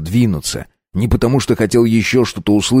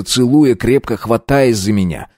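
usual speaking voice

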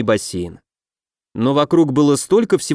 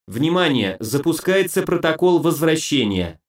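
metallic robot voice. Acted. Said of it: "разнёсся металлический голос".

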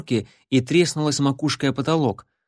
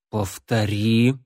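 fierce, menacing; 2 semitones lower, much slower than usual. Acted. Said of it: "люто проговорил он".

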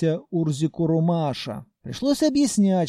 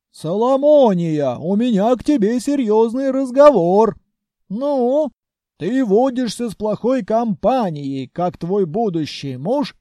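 lecturing groom; 2 semitones higher, 4 dB louder than usual. Acted. Groom lectures through megaphone.

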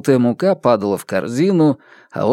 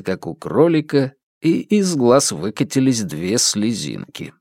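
normal talking voice

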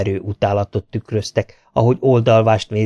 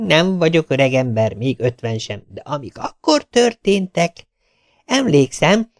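lightly voiced, slightly higher chatty tailor; 5 semitones higher than usual. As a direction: rattle on like a talkative tailor. Tailor keeps telling his tale.

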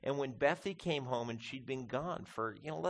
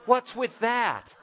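high, loud, slow laughing question; laughing disbelief; 10 semitones higher, 11 dB louder, slower than usual. Real, not acted. Pastor to congregation about his dog, laughing in disbelief.

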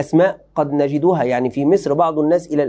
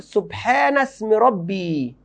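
slow emphatic quote; 5 semitones higher, much slower than usual. Shown as a demonstration. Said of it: "لم يقل".

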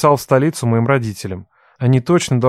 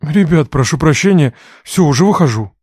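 embarrassed; 3 semitones higher, 4 dB louder than usual. Acted. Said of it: "Смущённо пробормотал он".

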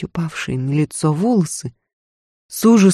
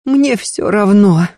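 hoarse; 4 semitones higher, 3 dB louder, slower than usual. Acted. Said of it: "хрипло сказала Лазарева".

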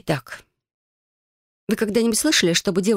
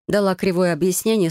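usual speaking voice

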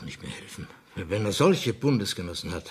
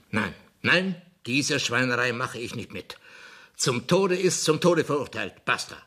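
raised, higher indignant protest; indignant refusal; 5 semitones higher than usual. Acted. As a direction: slam the door on the plea, getting worked up. King refuses pardon in outrage.

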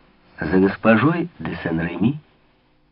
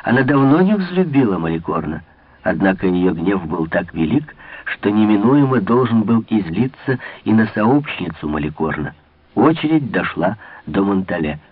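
plain reading voice

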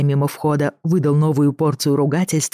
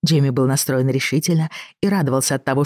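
usual speaking voice

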